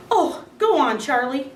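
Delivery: high, teasing exclamation; wife teasing husband about the pajama story; amused disbelief. A narrator's reading. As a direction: tease him in disbelief.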